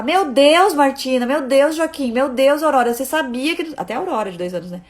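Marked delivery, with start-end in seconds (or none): 0.0-3.7 put-on raised, higher alarmed "meu Deus" at each child; alarmed exclaiming. Mother's first impulse, alarmed exclaiming to her kids. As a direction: exclaim in a mild panic at the kids. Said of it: "meu primeiro ímpeto é sempre falar".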